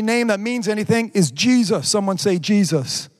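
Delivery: emphatic sermon delivery, key words driven home; preaching. Acted. Preacher declaring the word of God to online congregation, emphatic preaching.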